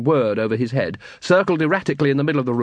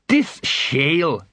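slow troll; 3 semitones higher, much slower than usual. Acted.

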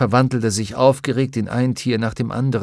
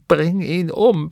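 high, slow first cry of fury; screaming in rage; 7 semitones higher, slower than usual. A narrator's reading. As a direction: scream for his death, still gathering force. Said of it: "packte seine Arme und schrie".

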